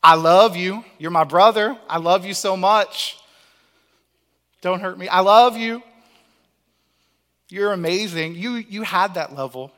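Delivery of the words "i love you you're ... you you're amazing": louder, overdone pleading to a big brother; gushing apology. Retold or imitated. Kid begging his angry older brother, hammed-up pleading. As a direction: gush sweet nothings so he won't hurt you. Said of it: "usually you come out with, like".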